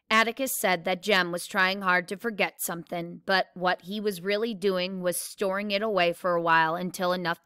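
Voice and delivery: steady read-aloud voice with characters lightly voiced; story narration. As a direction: read the chapter aloud to the class, evenly. Reads novel chapter aloud.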